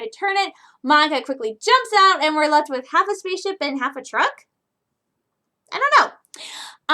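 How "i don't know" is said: whisper. Real, not acted. Unsure about the ship.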